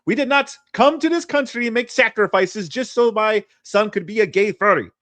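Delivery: put-on high, loud Chilean dad accent. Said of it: "I don't know how to do a good Chilean accent".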